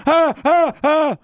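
loud high panicked ah sounds; Rain Man yelps. Retold or imitated. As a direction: cry out at the slightest touch. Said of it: "he'd go".

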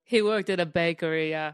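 a singer's voice. Retold or imitated. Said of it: "a singer's voice".

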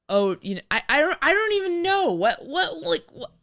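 high, fast flustered panic; horrified. Retold or imitated. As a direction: squeal it out, all flustered. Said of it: "He's not horrified".

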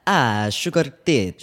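Italian accent. Shown as a demonstration. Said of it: "could you demonstrate?".

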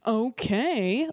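comic showing their stage delivery; a drawn-up stage "okay". Shown as a demonstration. Comic demonstrating to the others how they both sound on stage, stage delivery. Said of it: "we both kinda do the thing".

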